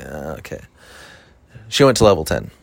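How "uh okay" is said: much lower, near-silent deadpan; flat stunned okay. Retold or imitated. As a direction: mumble it, stunned. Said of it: "I'm like".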